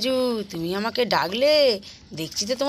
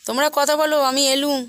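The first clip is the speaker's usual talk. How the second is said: huffy; 4 semitones higher than usual. Acted. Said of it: "পিয়ার মাথাটা আবার মনে হয় গরম হয়ে গেছে".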